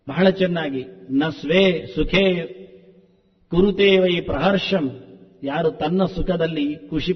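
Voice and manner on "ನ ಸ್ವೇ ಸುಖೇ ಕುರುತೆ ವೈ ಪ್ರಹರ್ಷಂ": slow, measured chanting of the verse; slow Sanskrit recitation. Shown as a demonstration. Preacher quoting Vidura's verse to the audience, slow chant. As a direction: intone each syllable of the shloka slowly.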